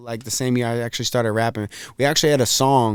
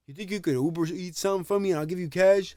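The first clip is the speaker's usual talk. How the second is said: imitating old-fashioned friend; 5 semitones higher, 4 dB quieter than usual. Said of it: "He's like".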